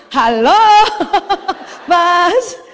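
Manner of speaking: playfully sweet, drawn-out calling; smiling call. Shown as a demonstration. Wife still calling her distracted husband, smiling and laughing. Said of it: "pertahankan senyum sampai panggilan kelima".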